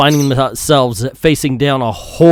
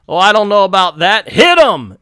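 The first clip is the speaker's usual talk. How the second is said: higher, louder put-on Asian accent; a villain's line redone in a mock Asian accent; 6 semitones higher, 5 dB louder than usual. Nazi officer ordering the attack, mock Asian accent. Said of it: "I can do Asian accent".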